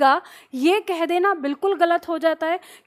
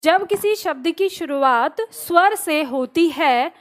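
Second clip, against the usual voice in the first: slow dictation. Shown as a demonstration. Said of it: "क्या लिखा?".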